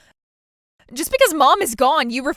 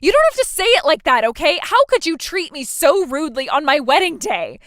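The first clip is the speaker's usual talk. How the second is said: louder, indignant pushback; offended protest; 4 dB louder than usual. Acted. Bride offended by sister's harsh words, indignant protest. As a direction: snap back, wounded and defensive. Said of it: "you're unbelievable".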